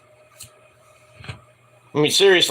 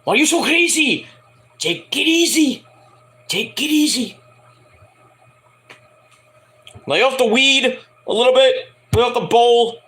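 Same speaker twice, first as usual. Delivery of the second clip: much higher, put-on pleading voice; Issa's voice; 7 semitones higher than usual. Friend begging Booker to calm down, high put-on voice. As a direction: plead with him to chill, pitched way up. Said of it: "Issa would say".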